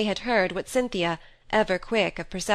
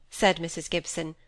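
plain reading voice

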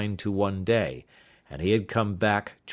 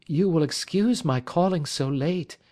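higher woman's voice, polite apology; higher polite voice of a late caller; visitor Kate's voice; 8 semitones higher than usual. A narrator's reading. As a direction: play the veiled lady apologising. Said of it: "she began".

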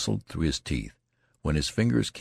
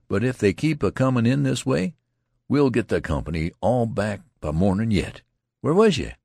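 higher, loud and hearty corporal; rough corporal; 6 semitones higher, 4 dB louder than usual. Acted. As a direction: boom at the returning soldier. Corporal greets returning soldier.

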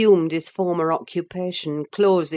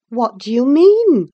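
high, louder puzzled servant; Zillah asking; 8 semitones higher, 11 dB louder than usual. Acted. Zillah to Nelly, puzzled servant voice. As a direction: Zillah jumps in, surprised. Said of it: "asked Zillah".

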